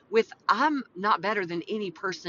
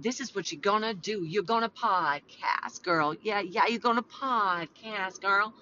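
playful voice of the Lord. Retold or imitated. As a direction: stretch out the playful pronouncement. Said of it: "He didn't say it like that at all".

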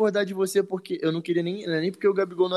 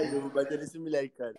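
faint, softer repeat like an echo; canyon echo; 7 dB quieter than usual. Pretend. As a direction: echo the line back quietly. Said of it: "Olha o eco".

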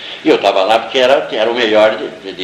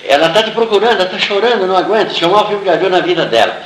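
higher, pressing retold message; urgent retelling; 5 semitones higher, faster than usual. Ambassador says she's looking for you, retold with urgency. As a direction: pass on an urgent summons.

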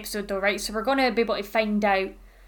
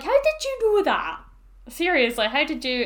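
incredulous; 4 semitones higher than usual. Retold or imitated. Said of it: "And I'm like".

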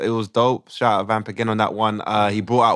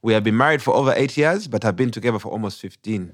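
put-on Ugandan accent. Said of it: "we do it in a Ugandan accent".

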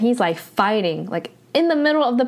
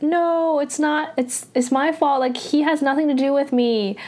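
retold yelling; 5 semitones higher than usual. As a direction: imitate a pleading yell at storytelling volume.

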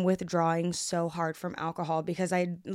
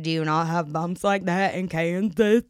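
mocking the driver; 4 dB louder than usual. Mocking the driver's condescending question.

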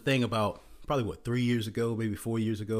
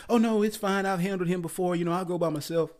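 sweet dismissive date; 6 semitones higher than usual. Retold or imitated. Woman declines the ride.

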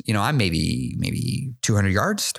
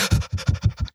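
breathless gasp. Retold or imitated. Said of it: "I'm breathing heavy".

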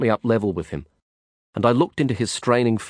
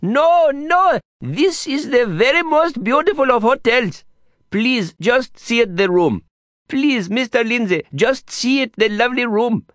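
high, desperate pleading guide; anguished plea; 4 dB louder than usual. A narrator's reading. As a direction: beg them to stay, frantic. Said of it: "an anguished cry".

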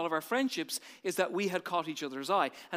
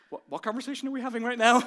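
higher, louder startled question; surprised girl; 5 semitones higher, 5 dB louder, faster than usual. Retold or imitated. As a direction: ask as if caught off guard.

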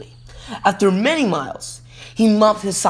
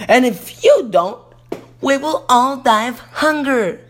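snapped; 6 semitones higher than usual. A narrator's reading. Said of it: "snapped the nasty stepmother".

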